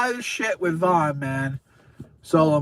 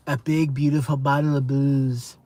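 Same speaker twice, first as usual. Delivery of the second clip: Trump voice; 5 semitones lower than usual. Retold or imitated. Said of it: "let me do the Trump voice".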